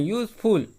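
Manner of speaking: यूजफुल with a break after यूज; यूजफुल said as two distinct syllables; pause between syllables. Shown as a demonstration. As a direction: separate यूज from फुल in यूजफुल. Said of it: "हम रुक रहे हैं".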